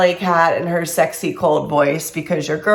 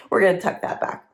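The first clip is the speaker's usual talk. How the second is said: whisper; 6 dB quieter, faster than usual. Real, not acted. Aside while fixing her hair.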